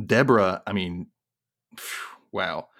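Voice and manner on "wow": sighed wow. Real, not acted. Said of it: "sighs, wow".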